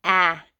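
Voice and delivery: 'Ah' as a loud, isolated short A; short A sound. Shown as a demonstration. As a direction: sound out the vowel of 'have' as 'Ah'. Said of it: "a short A".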